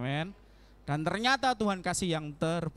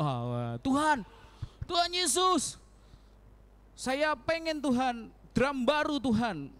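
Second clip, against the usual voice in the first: Pipin praying; 6 semitones higher, much slower than usual. Retold or imitated. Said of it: "Misalnya Pipin berdoa".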